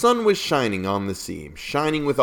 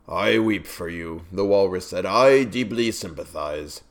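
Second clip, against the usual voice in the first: mock weeping; 3 semitones lower than usual. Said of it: "With sobs and tears".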